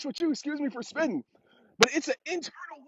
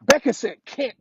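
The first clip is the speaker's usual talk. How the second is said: put-on a light excited kid voice, louder; daughter's reveal; 5 dB louder than usual. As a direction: lightly imitate the little girl blurting it out. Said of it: "She said".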